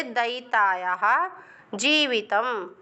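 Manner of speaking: दयितायाः जीवितम spelled out slowly, word by word; slow dictation of दयितायाः जीवितम; slow careful split. Shown as a demonstration. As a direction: break the compound apart, slowly, each word given its own weight. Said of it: "अब समास देख लीजिए".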